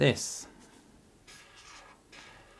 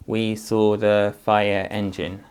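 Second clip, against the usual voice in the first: slow, even, word by word; slow read-back; 4 dB louder, slower than usual. Shown as a demonstration. Teacher confirming the sentence with the child, slow read. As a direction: read the whole sentence slowly to check it.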